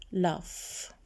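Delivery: "Laugh" said as "laff". Shown as a demonstration. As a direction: model "Laugh" alone with a clear final f. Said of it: "بنلفظهم مثل صوت ال F".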